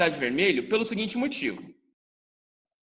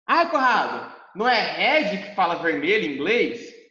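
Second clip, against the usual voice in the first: pupil objecting. Pretend. Imagined pupil questions teacher Conrado, mildly protesting voice. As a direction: play the puzzled student who talks back.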